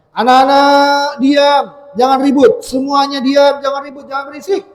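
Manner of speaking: lightly acted teacher calling for silence; teacher hushing class. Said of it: "bilang ke anak-anak di kelasnya".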